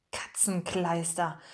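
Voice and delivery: softly muttered, slow exclamation; a hushed, drawn-out curse under the breath; whispered. A narrator's reading. Pikandu to his friends as they hide, whispered. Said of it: "flüsterte Pikandu".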